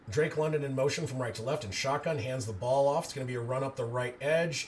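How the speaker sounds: steady, even play-by-play; live play-by-play. Acted. Streamer calling the run up the right edge, even play-by-play. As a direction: narrate the run and the clock.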